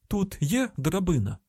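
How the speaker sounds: high-pitched urgent query; urgent calling out. A narrator's reading. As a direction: call the question down into a pit. Calling question into the pit.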